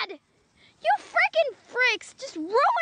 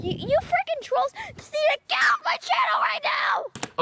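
angry rant; 3 semitones higher than usual. Acted.

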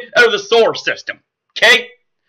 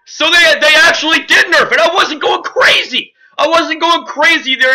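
real disbelief; 6 semitones higher than usual. Real, not acted. Realizes the nerf was real.

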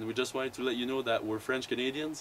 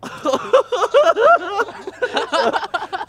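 loud laughter; 13 dB louder than usual. Real, not acted. Bursts out laughing.

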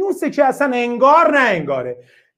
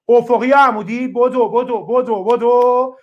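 hurrying the class. Real, not acted. Teacher hurries students for the answer, urgent call. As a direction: push the students to answer quickly, calling out.

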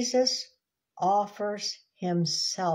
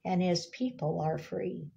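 proclaiming; 3 dB louder than usual. Acted. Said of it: "This phrase is going forth".

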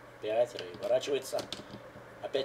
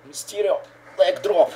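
loud, higher hype call; excited shout; 8 semitones higher, 13 dB louder, slower than usual. Real, not acted. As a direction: call the move like a thrilled fan. Hype at a big move. (громкий восторженный выкрик)

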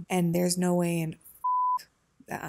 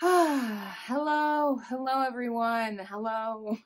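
high, cheery vlog hello; bright intro greeting; 5 semitones higher, slower than usual. Shown as a demonstration. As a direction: greet viewers in a sing-song way. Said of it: "I can't get good at intros".

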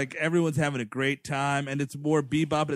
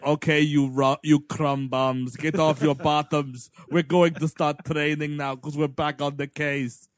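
mock drill sergeant; 4 dB louder than usual. Voicing Arnold rallying the team.

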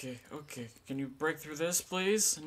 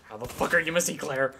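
loud exasperated yell; angry shout; 9 dB louder than usual. Real, not acted. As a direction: yell at the bad aim. Angry at character.

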